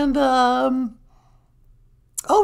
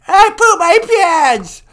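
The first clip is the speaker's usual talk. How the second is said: put-on hard-of-hearing old woman; old lady voice; 3 semitones higher, 7 dB louder than usual. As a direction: croak like a deaf granny. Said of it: "She's really old and nasty".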